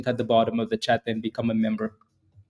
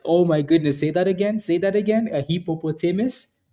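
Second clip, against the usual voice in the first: higher-pitched amused incredulity; high, goading mock astonishment; mocking disbelief; 4 semitones higher than usual. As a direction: imitate someone teasing an odd pronunciation. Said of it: "was laughing at me".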